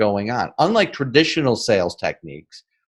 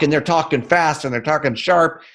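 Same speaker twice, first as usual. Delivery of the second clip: quick, higher-pitched rattle; brisk, raised-pitch New Yorker pace; fast and sharp; 5 semitones higher than usual. Shown as a demonstration. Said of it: "they're talking like New Yorkers talk".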